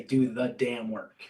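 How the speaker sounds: slow motto with emphasis on "the"; stress on "the". Shown as a demonstration. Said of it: "Emphasis on the word the".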